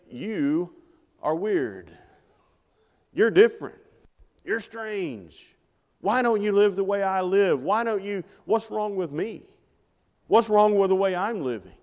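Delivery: high-pitched mock indignation; indignant challenge. Worldly people confronting Christians who live differently, indignant. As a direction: challenge them with pitch lifted right up.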